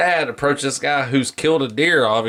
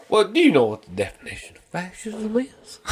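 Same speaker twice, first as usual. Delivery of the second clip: higher-pitched mock know-it-all question; mocking retort; 8 semitones higher than usual. Retelling a vaccination argument, mocking retort. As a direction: imitate a challenger, pitched up. Retold challenge from the other person.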